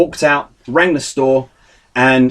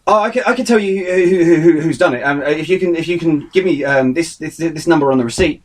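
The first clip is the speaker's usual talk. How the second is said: fearful stammer; 2 semitones higher than usual. Retold or imitated. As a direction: stumble over words as if scared. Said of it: "there was fear in his voice".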